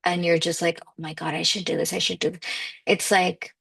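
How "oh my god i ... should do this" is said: anxious panic. Retold or imitated. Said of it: "It's not like a racing heart".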